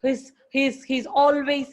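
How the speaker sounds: ordinary talk, nothing marked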